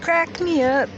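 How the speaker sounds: mock it loudly, high and dry; sarcastic loud crack me up. Sarcastic after joke.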